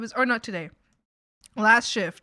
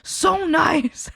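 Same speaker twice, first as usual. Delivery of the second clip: sweet coworker; 7 semitones higher, 4 dB louder, much slower than usual. Retold or imitated. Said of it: "And she's like".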